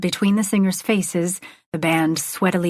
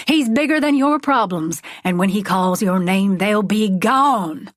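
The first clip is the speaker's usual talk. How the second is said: raised, stretched-out preacher voice; revival preaching. Acted. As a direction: preach it to the whole stadium. Preacher addresses stadium.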